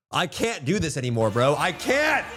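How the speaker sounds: high, plaintive country-accent wail. Real, not acted. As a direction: moan helplessly in a country accent, pitch climbing. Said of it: "talk like in this country accent".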